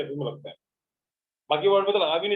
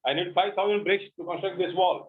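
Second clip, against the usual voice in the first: very slow, each word apart; slow example sentence; much slower than usual. Shown as a demonstration. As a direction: dictate the sentence slowly. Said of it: "teacher gives example slowly". (धीमी dictation)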